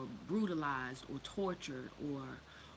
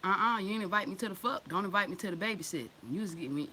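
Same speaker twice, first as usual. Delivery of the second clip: grandpa refusing; 3 semitones higher, 4 dB louder than usual. Retold or imitated. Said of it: "my granddad in the background".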